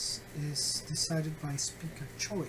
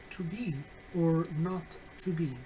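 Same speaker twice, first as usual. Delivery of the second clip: "not" punched and held in "To be or not to be"; stress on NOT. Shown as a demonstration. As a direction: pause after "To be", then lean on "not". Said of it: "the stress on the word not".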